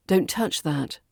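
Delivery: "Don't touch that." stepping down to a finish; falling intonation. Shown as a demonstration. English teacher demonstrating firm commands, falling tone on "that". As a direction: drop firmly onto "that". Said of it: "you use a falling intonation at the end for a".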